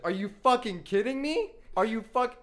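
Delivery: loud, high, outraged shouting; mock enraged yell; imitated furious dad. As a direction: hammer it out like a dad losing it. Dad discovers the noodles.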